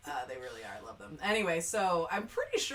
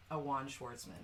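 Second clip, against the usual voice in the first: whispered reading; 5 semitones lower, 9 dB quieter than usual. Real, not acted. Reading the cast list, conceding.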